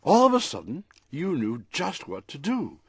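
lively picture-book read-aloud; storybook reading. A narrator's reading. Author reading his dog story on the radio, storybook voice. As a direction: read it like a bedtime story for a pet.

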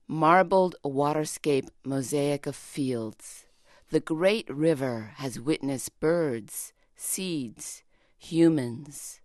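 slow, measured poetry reading; poem reading. Acted. Poet reads a friend's translated poem, slow and measured. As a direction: let each image land slowly.

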